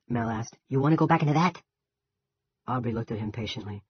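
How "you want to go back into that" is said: louder, urgent question; alarmed at the gunfire. A narrator's reading.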